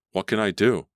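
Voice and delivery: the fear breaks through; panicked cry. A narrator's reading.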